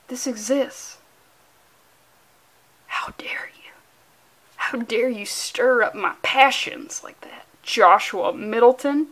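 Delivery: slow, unvoiced, hammed-up scolding; whispered mock outrage. Scolding artist Joshua Middleton, whispered mock outrage. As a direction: hiss the reproach like a melodrama.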